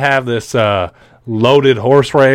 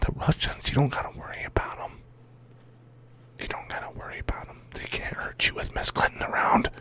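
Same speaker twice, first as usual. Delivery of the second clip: whispered sales pitch; mock reassuring whisper; 3 semitones higher, 16 dB quieter than usual. Host parodying Clinton campaign, reassuring viewers in a whisper. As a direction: whisper it like a secret comfort.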